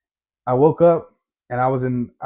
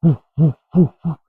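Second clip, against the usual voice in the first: imitated heartbeat thumps; 2 semitones higher, 4 dB louder than usual. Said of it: "So I'm hearing that".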